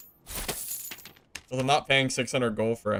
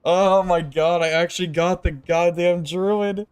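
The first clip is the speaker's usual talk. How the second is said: thrilled; 5 semitones higher, 5 dB louder than usual. Real, not acted. Reacting to killing a druid.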